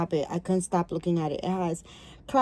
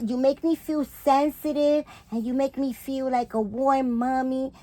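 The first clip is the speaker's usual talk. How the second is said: put-on cooing baby talk; 5 semitones higher than usual. Cooing over the baby doll.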